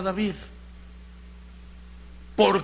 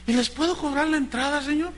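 imagined John the Baptist; 5 semitones higher, faster than usual. Acted. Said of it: "Juan el Bautista diciendo".

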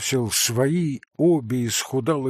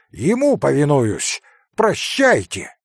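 curt loud farewell; 2 semitones higher, 5 dB louder than usual. Acted. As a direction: storm out on it. Kolya storms off.

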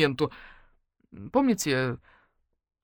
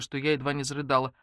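usual speaking voice

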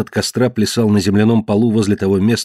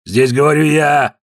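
raised, booming command; thundering; 6 semitones higher, 4 dB louder than usual. Acted. Ned to Walt, booming command. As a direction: thunder the order down. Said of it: "прогремел Нет".

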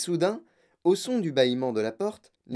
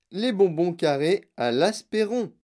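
loud, higher announcement; monsieur Wonka; 5 semitones higher, 5 dB louder than usual. A narrator's reading. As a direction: proclaim it like a showman. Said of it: "cria monsieur Wonka". (annonce criée, voix forte)

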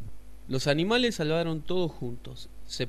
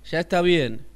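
sapo firme; 4 semitones higher, 9 dB louder than usual. Acted. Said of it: "dijo el sapo".

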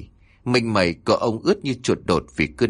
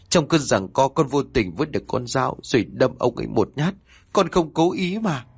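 stammering confession; 3 semitones higher than usual. Acted. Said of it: "cô ấp úng kể".

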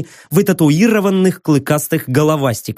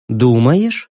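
skeptical hmph; 4 semitones lower than usual. Acted. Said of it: "хмыкнула Кассандра".

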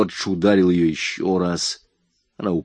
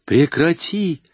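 higher, sharp angry cry; angry shout; 8 semitones higher, slower than usual. A narrator's reading. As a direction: snap at him to stop. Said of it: "зло закричала она".

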